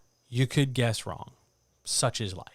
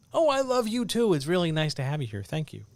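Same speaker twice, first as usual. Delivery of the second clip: mock thanks to a listener; 2 semitones higher, 3 dB louder than usual. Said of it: "like I'm talking into an open mic for a Patreon thing".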